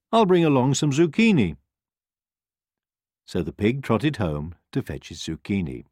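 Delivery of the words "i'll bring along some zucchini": high eager pig; happy to help. Acted. Pig offering.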